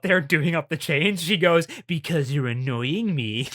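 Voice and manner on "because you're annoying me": slow, mocking sing-song echo; mock him back, slowly and snidely. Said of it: "in that fucking mocking voice".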